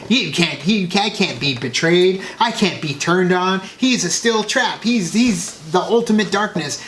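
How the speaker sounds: lightly voiced smug villain mocking; arrogant Snoke. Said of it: "the way he's like".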